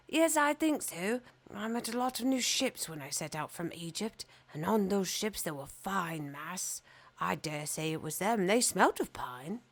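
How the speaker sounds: a wise bird recalling his travels; stork voice. Acted.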